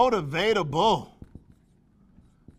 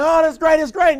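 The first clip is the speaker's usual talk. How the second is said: loud, high fake enthusiasm; mock excited shout; mock excitement; 8 semitones higher, 7 dB louder than usual. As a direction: gush it out, hammed up.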